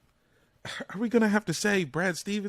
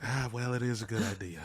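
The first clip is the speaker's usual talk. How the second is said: grudging admission; 5 semitones lower, 8 dB quieter than usual. Retold or imitated. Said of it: "such a moment of like".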